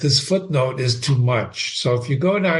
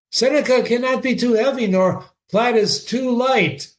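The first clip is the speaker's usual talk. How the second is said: Polonius rattling on; 6 semitones higher than usual. Acted. Polonius listing kinds of plays.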